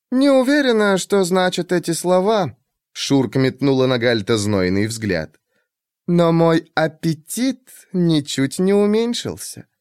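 high, lightly teasing woman. Acted. Shurk voiced.

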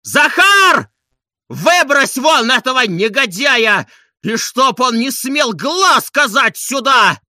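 very high, loud, slow command; furious shout. A narrator's reading. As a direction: order the servant to throw him out. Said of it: "закричал Обломов".

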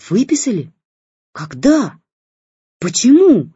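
shocked questions building to a loud high cry; rising into a scream. A narrator's reading. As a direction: start stunned, end screaming. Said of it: "аж зашлась в крике".

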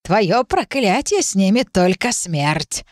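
very slow ominous crone; old witch voice. Acted. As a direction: pronounce the doom slowly. Witch pronounces the curse.

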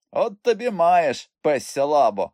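high, loud, drawn-out surprise; astonished exclamation. A narrator's reading. Uncle hearing a mute speak, astonished. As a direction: exclaim in disbelief, stretching it.

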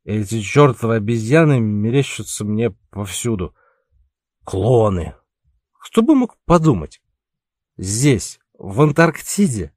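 put-on bitter drunken outburst; angry drunk. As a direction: spit it out, drunk and annoyed. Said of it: "затем зло добавил".

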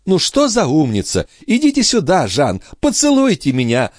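high, gushing praise; overjoyed. A narrator's reading. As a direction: call him over with delight. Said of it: "обрадовалась графиня".

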